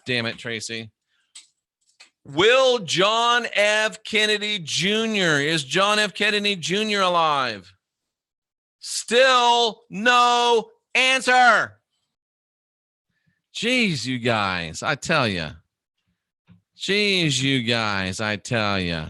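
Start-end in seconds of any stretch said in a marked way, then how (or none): 2.2-11.8 mock-dramatic. Mock-dramatic question to cards. 13.5-19.1 put-on Boston accent. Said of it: "say it with a Boston accent".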